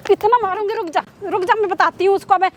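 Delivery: furious mother's warning; indignant, menacing scolding; angry threat. Acted. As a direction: threaten him in outrage. Acted mother threatens beating.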